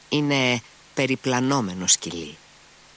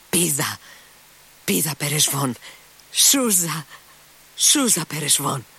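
shouting commands; 5 semitones higher than usual. A narrator's reading. Kolya yelling commands at his dog Perezvon. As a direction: bark orders at the dog, rising. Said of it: "Άρχισε να ουρλιάζει ο Κόλια".

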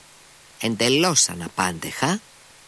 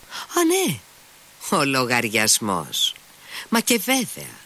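airy reply; 3 semitones higher, slower than usual. Acted. Mitya answers the clerk lightly.

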